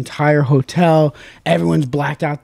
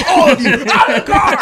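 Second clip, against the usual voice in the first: cop's order; 9 semitones higher, 4 dB louder than usual. Retold or imitated. Cop ordering everyone out.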